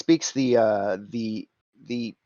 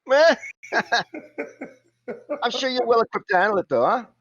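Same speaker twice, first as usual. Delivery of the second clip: lightly voiced cockney shrug; cockney fixer; 8 semitones higher than usual. Simon downplaying the ghouls, casual cockney. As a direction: brush off the danger with a chuckle.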